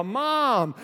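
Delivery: mock child's yell. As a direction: imitate a lost kid calling out, mildly. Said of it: "she hears Chloe yell".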